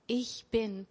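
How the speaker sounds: Ich pressed down, bin falling; stress on Ich. Shown as a demonstration. Preacher showing the weight on Ich. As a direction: lean on Ich, let bin drop. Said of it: "die Betonung liegt hier auf diesem Ich".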